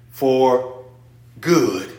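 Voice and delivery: usual speaking voice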